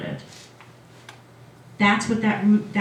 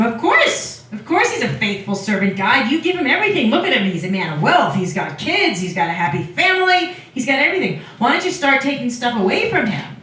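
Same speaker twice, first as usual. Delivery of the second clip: high-pitched incredulous "of course", then needling; hammed-up dismissive challenge, pitch jumping about; mock scoffing; 3 semitones higher than usual. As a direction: scoff at the praise, playfully acted. Satan scoffing at God in retelling.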